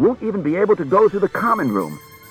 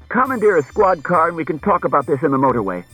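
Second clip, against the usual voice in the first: higher, louder urgent instruction; raised-voice hurried command; 8 semitones higher, 5 dB louder than usual. A narrator's reading. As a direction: press the plan on them. Husband urgently proposes leaving.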